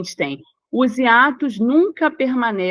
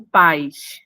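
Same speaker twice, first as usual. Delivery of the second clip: drawn-out word; 3 semitones lower than usual. Shown as a demonstration. Contrasting país with pais.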